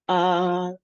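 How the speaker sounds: "apocryphal" broken up, long first syllable then a pause; separated syllables. Shown as a demonstration. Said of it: "So four words".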